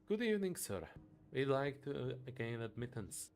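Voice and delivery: a courteous gentleman asking entry; polite character voice. Acted. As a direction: greet the doorman politely. Character greets doorman politely.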